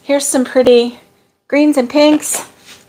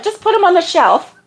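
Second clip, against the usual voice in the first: laughing quote; 7 semitones higher than usual. Retold or imitated. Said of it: "Lori's like".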